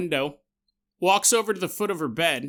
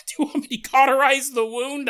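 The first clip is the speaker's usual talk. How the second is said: eager offer; 8 semitones higher, 6 dB louder than usual. Retold or imitated. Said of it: "I'm like".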